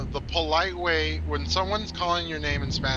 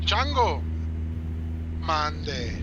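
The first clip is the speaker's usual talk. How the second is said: calling out teasingly; much slower than usual. Retold or imitated. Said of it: "I would be like".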